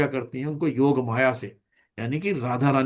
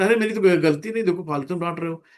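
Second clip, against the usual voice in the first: mock child's protest; faster than usual. Child answering back to scolding parents, mock indignant protest. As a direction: protest like a wrongly scolded child, half in earnest. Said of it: "बच्चे माँ बाप से चिल्लाने लगते हैं".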